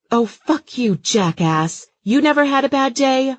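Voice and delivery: high, loud angry yell; loud furious shout from the car; road rage. Acted. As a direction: curse the other driver. Mother swearing at another driver.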